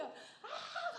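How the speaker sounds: high-pitched mock scream; reenacted scream. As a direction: let out a helpless high cry, half laughing. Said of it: "소리를 지른 거예요". (자기도 모르게 지른 비명 흉내)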